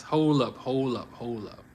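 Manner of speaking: stunned murmur trailing off; hold up, fading. Real, not acted. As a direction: let it die away in disbelief. Rereads shocking line again.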